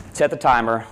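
ordinary talk, nothing marked

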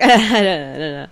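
slow, laughing through the words. Retold or imitated. Cashier tells Swedish customer, slow laughing reply. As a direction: giggle it out slowly.

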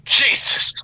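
breathy whispered Jesus; whispering. Pretend. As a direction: whisper it reverently. Mock eulogy whisper.

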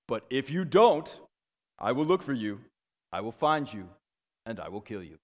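lightly voiced Liam Neeson threat, calm and measured; a hint of a steely movie father warning kidnappers; Liam Neeson impression. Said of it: "I'm gonna do my best Liam Neeson voice".

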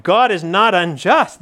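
"God is not unjust" lifted with bright joy, rising; radiant. Shown as a demonstration. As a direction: let "God is not unjust" shine with gladness. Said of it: "there's something radiant about".

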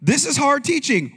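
disciples protesting, HARD stressed; mock shout. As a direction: call it out like a complaint. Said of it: "many of his disciples said".

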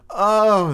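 high, loud theatrical moan; drawn high "oh" of mock dismay. A narrator's reading. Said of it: "they all moaned".

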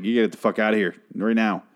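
retold order to leave, rising in pitch at the end; half-hearted yell, imitating someone ordering people out; mild mock yell. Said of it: "he yells at him to leave".

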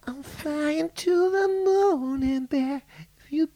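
high put-on Australian singing voice, hammed up; Australian accent. Attempting an Australian accent for his podcast co-host. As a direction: camp Australian pop singer take. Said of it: "I can do an accent".

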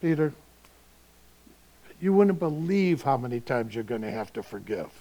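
easy, affectionate telling; casual Jesus. Retold or imitated. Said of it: "I just see it".

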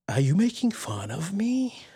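hoarse whispered question, no voice. Real, not acted. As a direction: whisper it with a sore throat. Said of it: "your cold hasn't affected your ability to do voices".

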